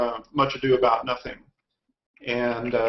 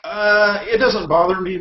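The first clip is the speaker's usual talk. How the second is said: put-on loud British accent, slipping; British accent starting to fade; Dudley Moore impression; 6 semitones higher, 6 dB louder than usual. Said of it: "your accent's gone".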